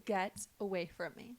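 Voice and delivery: spaced-out "get... away from me". Acted. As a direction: draw out GET, then push them away. Repeats the rebuff more deliberately.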